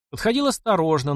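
plain reading voice

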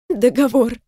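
a touch of crying on Договор; sobbed. Acted. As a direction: choke Договор out through a sob. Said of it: "всхлипнула Каролина".

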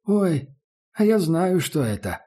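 put-on high, teasing old crone; lightly voiced toothless barge woman. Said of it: "раздался за плечом знакомый голос".

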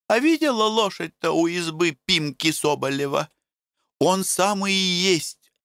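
village woman gossiping. Acted. Paraskovya warns the women that Makar is near, high and urgent. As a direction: warn the others in a high, hurried voice.

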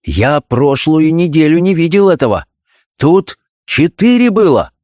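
rising alarmed father's voice; a hint of a shocked father; alarmed doctor. Doctor shocked at forged grades, voice rising in alarm.

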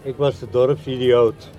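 spoken lyric with dramatic pauses; poem recitation. Acted. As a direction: recite in spaced lines, letting the voice sink at the close. Recites another song lyric.

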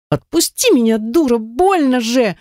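pained high-pitched shriek; squealing in pain. A narrator's reading. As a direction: shriek it like a hurt, furious girl. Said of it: "заверещала брюнетистая кикимора".

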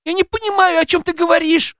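put-on very high girlish voice; high voiced young woman protesting; squeaky protest. A narrator's reading. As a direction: keep squeaking high in denial. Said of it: "запищала Кира".

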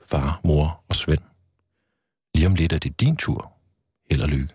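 measured read-aloud narration of a personal birth story; memoir reading. Acted. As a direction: read it from the page, in even phrases with pauses. Continues reading his book's ending. (rolig oplæsning af personlig fortælling)

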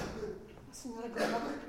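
slow frightened whisper; sussurro spaventato. Acted. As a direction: breathe the name, afraid of being heard. Teme che la padrona ascolti. (sussurro lento e timoroso)

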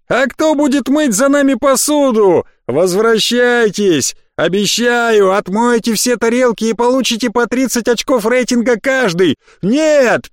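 high sarcastic shouting after them; mocking call-out. A narrator's reading. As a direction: taunt them as they run away. Mocking calls after fleeing heroes.

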